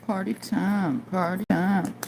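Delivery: singsong excited. Real, not acted.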